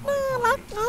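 ทำเสียงน่ารัก; cute voice. Retold or imitated. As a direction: squeak it like a cute mascot. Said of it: "เสียงพุดดิ้งเนี่ยน่ารักจังนะ".

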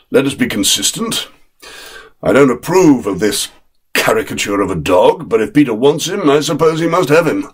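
a father sighing his way to yes; lightly voiced dry father. Father gives in to his wife, lightly voiced and dry.

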